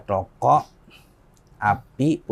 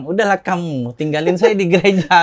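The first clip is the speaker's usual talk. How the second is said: loud, raised retold brush-off; mock exasperated dismissal; 5 semitones higher, 8 dB louder than usual. Convert telling brother to leave church matters alone, mock exasperated. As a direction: wave the sibling away, playing up the annoyance.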